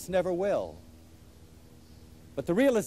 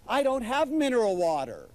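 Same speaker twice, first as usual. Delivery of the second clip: fretting hostess; 4 semitones higher than usual. Retold or imitated. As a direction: fret like a hostess caught unprepared. Wife dismayed about water.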